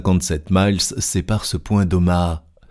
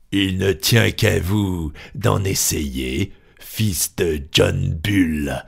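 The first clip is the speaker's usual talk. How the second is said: coarse colonel; slower than usual. Acted. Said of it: "répliqua le grossier personnage".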